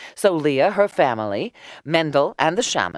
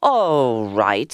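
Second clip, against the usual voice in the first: crying out; 3 semitones lower, 4 dB louder than usual. A narrator's reading. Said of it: "he cried".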